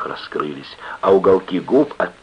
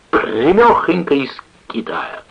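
put-on slow, higher drunken drawl; dead drunk; 8 semitones higher, 3 dB louder than usual. A narrator's reading. Sailor sprawled on table answering friends, drunk. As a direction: boast drunkenly, stretching the words. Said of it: "Он был в лоск пьян".

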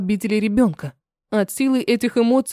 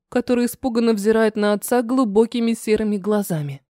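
usual speaking voice

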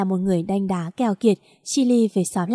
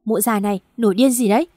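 barked scold; faster than usual. Acted. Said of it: "ông Hạ lôi ... vào nhà quát".

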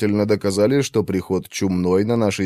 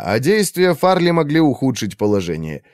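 ordinary delivery, nothing marked

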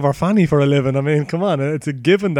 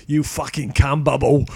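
put-on English accent; slower than usual. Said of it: "in an English accent".

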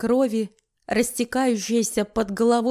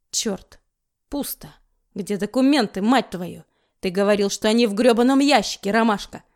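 angry cursing. Acted. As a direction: curse the empty drawer. Злой поиск документов. (злобная ругань)

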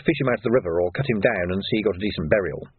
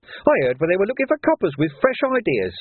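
higher, sneering villain voice; sly thug Carcer; 8 semitones higher than usual. A narrator's reading. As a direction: voice Carcer as a grinning menace.

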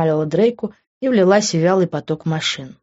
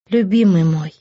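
louder. A narrator's reading. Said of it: "Только громче".

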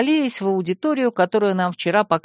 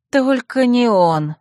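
groaning; 5 semitones higher, 3 dB louder, slower than usual. Acted. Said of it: "простонала я".

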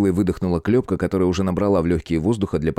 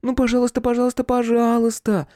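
put-on high, quick begging girl; rattling pleading. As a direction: rattle off the pleas. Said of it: "затараторила Клёпка".

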